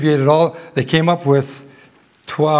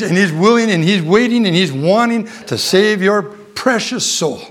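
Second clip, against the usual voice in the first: rising fervent appeal; 5 semitones higher than usual. Acted. Preacher building urgent appeal.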